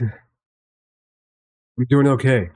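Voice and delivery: very slow, dragged-out words; slow drawn-out. Real, not acted. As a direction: stretch it out wearily. Repeats how he's doing, drawn out.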